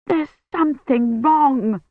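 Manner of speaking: high, slow and desperate. Acted. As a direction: plead it in rising panic. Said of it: "he said desperately".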